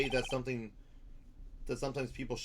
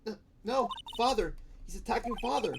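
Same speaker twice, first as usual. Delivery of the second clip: horrified cry; 10 semitones higher than usual. Acted. Young boy in the dark, crying out as his father is attacked. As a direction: cry out in horror.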